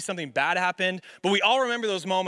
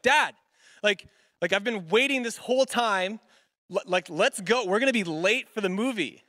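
mildly exasperated plea to hurry up; annoyed; 2 semitones higher than usual. Retold or imitated. Child hurrying a dad late for the movie, mildly annoyed. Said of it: "I get a little bit annoyed".

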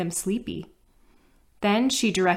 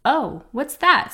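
put-on curious child; 6 semitones higher, 5 dB louder, slower than usual. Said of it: "Cindy wondered".

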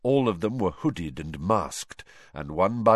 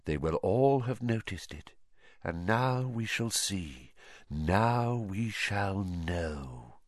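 quiet menace; 6 dB quieter, slower than usual. Acted. Voldemort savors the moment.

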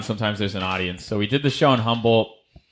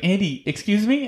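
higher prim host voice cutting in; imitating the host, pitched up; mock polite interruption; 9 semitones higher than usual.

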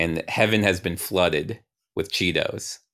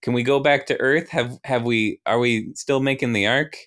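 higher, apologetic fretting; lightly voiced anxious apology; young Ryan; 5 semitones higher than usual. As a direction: plead helplessly with pitch raised a little. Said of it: "young Ryan is like".

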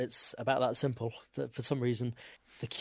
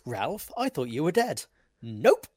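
Simpsons quote; 2 semitones higher, 5 dB louder than usual. Retold or imitated. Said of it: "another classic Simpsons".

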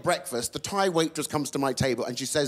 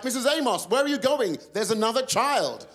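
nurse voice; 6 semitones higher, 3 dB louder than usual. Retold or imitated. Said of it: "the nurse was like".

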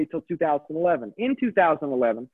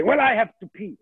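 higher, hammed-up old Frenchman's French accent; Gaston's French accent; 5 semitones higher than usual. Old Frenchman Gaston excusing himself, in a French accent. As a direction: toss it off as a dirty old French character. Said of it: "I played this old dirty Frenchman named Gaston".

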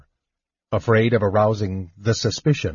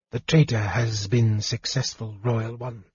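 much softer, hushed report; softly; 5 dB quieter than usual. Acted. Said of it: "the Draconian said softly".

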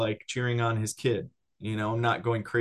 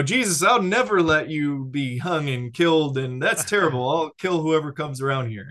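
louder, higher, a fiery loyal outburst; fierce protest; 4 semitones higher, 4 dB louder than usual. Retold or imitated. Peter protesting to Jesus about his death, fiery outburst. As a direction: vow it hotly, like a hothead ready to fight. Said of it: "Or, you know".

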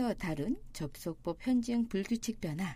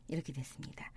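whisper; 6 semitones lower, 10 dB quieter, faster than usual. Real, not acted. Whispered aside.

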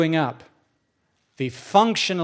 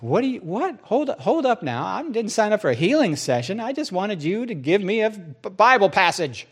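flustered protest; 3 semitones higher than usual. Acted. Preacher wanted only a Bible passage from God, flustered. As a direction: protest in a raised, thrown-off voice.

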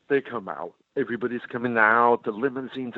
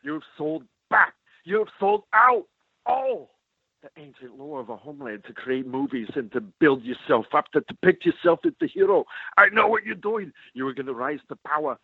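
heated confrontation; 3 semitones higher than usual. Retold or imitated. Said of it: "I was so prepared to say".

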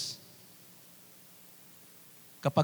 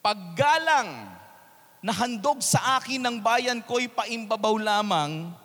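scripture reading. Acted. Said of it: "At ang sabi doon".

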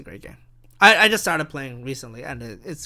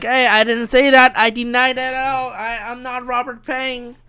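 higher-pitched pretend protest; mock denial; 5 semitones higher than usual. Podcaster pretends to deny he is himself, mock protest. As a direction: deny it in a put-on pleading voice. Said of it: "And I'm like".

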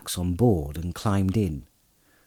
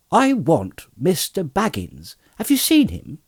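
high-pitched mysterious stranger; lightly muffled query out of the fog; 8 semitones higher than usual. A narrator's reading. Cloaked rider asking farmer for Baggins, muffled. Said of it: "said a muffled voice".

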